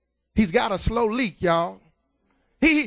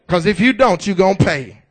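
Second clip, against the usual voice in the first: stern warning; 3 semitones lower, 6 dB louder than usual. Real, not acted. Preacher warning, loud.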